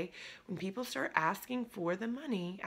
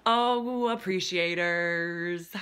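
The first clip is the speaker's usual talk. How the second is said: drawn-out, louder call to her appreciators; excited greeting; 6 dB louder, much slower than usual. Real, not acted. Coach greeting her appreciators group, drawn out with delight. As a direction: savour the name slowly with delight.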